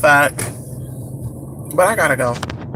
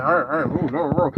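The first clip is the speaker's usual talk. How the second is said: mocking imitation; 6 semitones lower, 7 dB quieter than usual. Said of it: "to be like".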